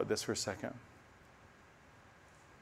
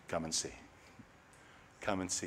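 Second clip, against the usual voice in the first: softer, lower and gentle; tender invitation; 4 semitones lower, 10 dB quieter than usual. Acted. Preacher voicing Jesus's invitation, softly tender. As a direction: offer it quietly as an open invitation.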